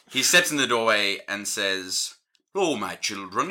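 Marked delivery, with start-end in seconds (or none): 2.6-3.5 Welsh dwarf priest; Father Glendower's shaky attempt at Welsh; Welsh accent. Prison warden steps in to address inmates, Welsh accent. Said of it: "a Welsh accent".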